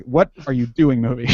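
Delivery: mildly irritated demand; demonstrating an annoyed "what are you doing"; kind of pissed. Shown as a demonstration. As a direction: say it a bit pissed, punching the words. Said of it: "you have to say it kind of pissed".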